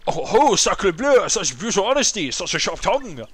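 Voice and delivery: put-on high, loud, theatrical French accent. Rebuffed suitor answers brutal honesty, flamboyant French accent. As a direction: retreat grandly in an over-the-top French accent. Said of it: "just so I could do a French accent".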